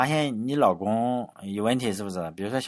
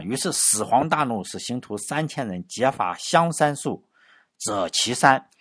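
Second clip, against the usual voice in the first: put-on slow, measured reading of the old text; reading classical text; slower than usual. Shown as a demonstration. Lecturer quotes the Records aloud, slow and measured. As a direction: recite the original line deliberately. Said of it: "原文上就说呢".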